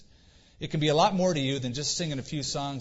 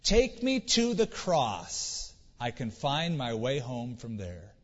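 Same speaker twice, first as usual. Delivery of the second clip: put-on smiling little boy; much slower than usual. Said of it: "The boy smiled and he said".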